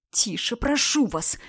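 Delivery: slow, hushed plea; quiet pleading. A narrator's reading. Janis begging the laughing woman to keep quiet. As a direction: beg her quietly to stop, scared of the neighbours. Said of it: "умолял Янис".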